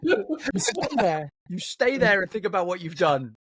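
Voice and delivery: mock-stern telling-off; drawn-out opening, then firm reprimand; scolding teacher. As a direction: send the child off to think about it. Voicing a teacher giving detention.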